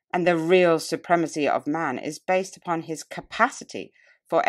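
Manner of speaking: measured, solemn public-speech delivery; oratorical reading. Acted. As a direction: declaim it like a nineteenth-century orator addressing a hall. Reads oration aloud.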